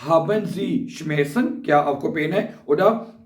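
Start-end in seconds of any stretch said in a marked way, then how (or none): 0.1-1.6 very slow, every German word spelled out for learners; slow dictation. Shown as a demonstration. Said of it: "पहला मैंने अभी बताया आपको".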